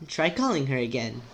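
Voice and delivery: put-on character voice with toned-down British accent. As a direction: ease off the British. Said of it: "I need to make her".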